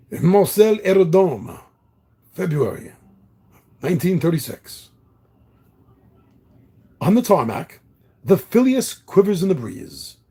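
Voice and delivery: reading the adventure intro aloud; story narration. Acted. Reads the game's story text.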